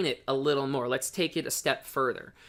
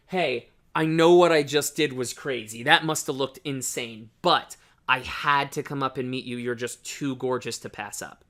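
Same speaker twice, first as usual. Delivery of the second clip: calm self-aware opener; 2 semitones lower than usual. Shown as a demonstration. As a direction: own the crazy moment calmly. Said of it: "That's way better".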